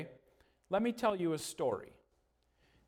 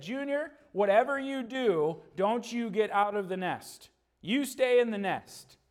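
lightly voiced stern father, a touch higher; stern dad eagle; 5 semitones higher than usual. Dad eagle warning Junior to stay in the nest, mildly stern. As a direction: warn the little one firmly. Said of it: "he said".

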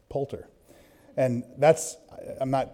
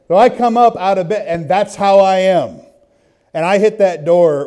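higher and louder, charging out; loud, fired-up retelling; 5 semitones higher, 9 dB louder than usual. Retold or imitated. Preacher reliving charging the door, loud. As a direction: tell it loud like you're bursting out.

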